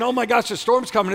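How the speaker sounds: high-pitched worried reaction; hammed-up "oh no" delivery; mock alarm. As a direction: imitate someone dreading bad news. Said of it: "instead of saying".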